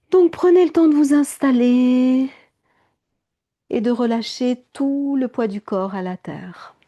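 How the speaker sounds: yoga teacher settling the class; guided relaxation. Acted. Leads a relaxation.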